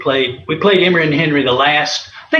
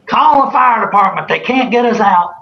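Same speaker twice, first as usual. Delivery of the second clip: higher, louder joking call; mock shout; 10 semitones higher, 5 dB louder than usual. Coach joking to the bench during a rally, loud and high. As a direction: bellow it like a proud coach cracking a joke.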